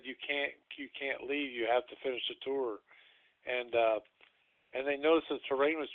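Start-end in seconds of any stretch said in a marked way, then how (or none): 0.0-2.8 put-on creepy kid voice. Kid warns they cannot leave.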